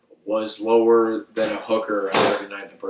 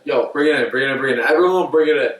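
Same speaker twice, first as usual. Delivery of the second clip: retold calling out; 2 semitones higher, 4 dB louder, faster than usual. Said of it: "calling recruits".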